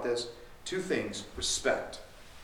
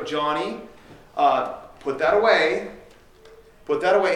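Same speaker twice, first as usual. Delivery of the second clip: put-on raised-voice parent calling to a child; imitated parent's command; 6 dB louder than usual. Parent to Johnny to put that away, raised mock command. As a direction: call it out louder, like a nagging parent.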